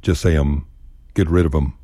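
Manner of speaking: "'em" clipped to a short "um" sound; dropped th in them. Shown as a demonstration. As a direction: say "'em", no th at the start. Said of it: "dispense with the T H and them".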